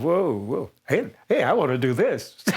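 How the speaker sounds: eager retold cry of joy; thrilled outburst. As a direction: burst out like a fan who just found his calling. Young fan thrilled at concert.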